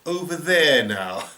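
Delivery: slipping away from the loopy organiser, lightly doing a cartoon dad voice; Homer Simpson. Escaping the loopy organiser in a light cartoon dad voice. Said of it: "I did my Homer Simpson".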